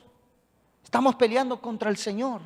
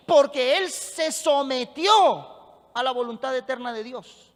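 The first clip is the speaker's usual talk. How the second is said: raised, insistent preacher's delivery; emphatic pulpit proclamation; forceful preaching; 4 semitones higher, 6 dB louder than usual. Real, not acted. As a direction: preach it with conviction, driving each phrase.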